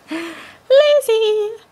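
high, loud mock scolding; loud self-scold. Real, not acted. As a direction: shout it at yourself.

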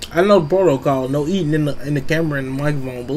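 chewing into the mic; ASMR mouth sounds while talking; chewing noisily. Real, not acted. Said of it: "Little A S M R".

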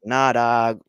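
imitating a thick Russian accent; light mock Russian accent, casual slang. Podcast host quotes the author in a Russian accent. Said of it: "in his thick Russian accent".

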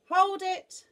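high, loud shout; commanding yell, pitched right up; abrupt halt. Acted. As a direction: cut the speller off. Noah halts the giraffe's spelling.

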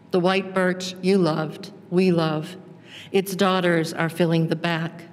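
measured, phrase-by-phrase poetry reading; poem reading. Acted. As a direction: read a poem aloud with deliberate pauses between images. Reads her poem aloud.

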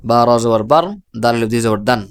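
syllable by syllable, ending on বার দান with the full n; spelled-out reading. Shown as a demonstration. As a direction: spell বা র জবর বার, then দান, each letter named. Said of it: "তাহলে আমি আবার বলছি".

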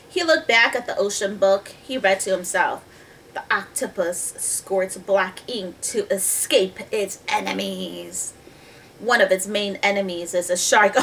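put-on measured storybook reading to children; story narration. A narrator's reading. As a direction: read the tale clearly, stretching key words. Reads the story aloud.

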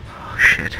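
whispering. Real, not acted. Hiding in the dark, scared.

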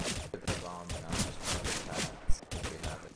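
choppy lagging robot voice; breaking up like a bad connection. Real, not acted. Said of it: "You sound like a robot".

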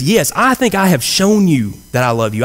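a touch indignant, pitch up, insisting he has proved it; the wrong take, a little put out and self-justifying; mildly affronted Peter protesting his love; defensive tone. Shown as a demonstration. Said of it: "I don't think that's the kind of tone that he used here".

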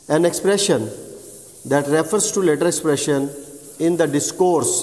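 each phrase spaced out, very slow; slow dictation. Shown as a demonstration. Teacher dictates the definition of cataphoric and anaphoric to students, very slowly. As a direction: dictate so students can write it down.

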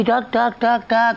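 rhythmic spoken footstep sounds; even, separate "ઠાક" beats; imitated footsteps. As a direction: tap out footsteps with the voice. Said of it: "આમ દરવાજામાંથી ચાલીને આવી".

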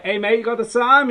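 loud, high mock Scouse greeting; imitating a local asking the time; hammed-up Liverpool voice. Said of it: "People are like".

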